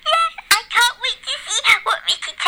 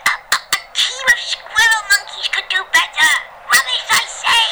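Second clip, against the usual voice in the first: shouting football fan; 3 semitones higher than usual. Acted. Charlie shouting at the match.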